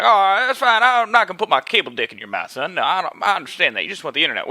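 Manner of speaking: lightly voiced Southern accent, high start easing down; good old Southern boy. Cable salesman calming a customer, light Southern accent. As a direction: reassure him in a mild Southern accent. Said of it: "this good old Southern boy".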